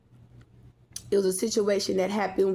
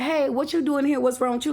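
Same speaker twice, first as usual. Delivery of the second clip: imitating auntie; 6 semitones higher than usual. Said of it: "Like that".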